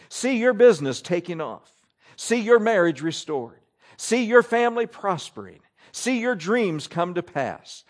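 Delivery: lightly put-on Southern drawl, smiling preacher; a hint of a sunny Southern TV preacher drawl; mock-cheerful Southern drawl, barely shifted. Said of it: "hear it in the Southern Smiling drawl as he would say".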